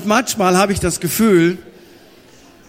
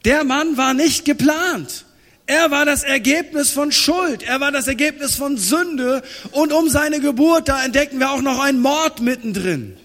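emphatic preaching; 4 semitones higher than usual. Acted.

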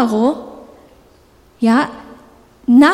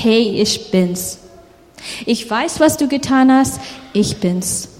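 tender reveal; 3 semitones lower than usual. Acted. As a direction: gently let them recognise you. Josef forgiving, revealing himself.

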